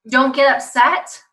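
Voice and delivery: slow, loud, punched words; mock parental order. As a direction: spell it out firmly to a child. Acts parent's command.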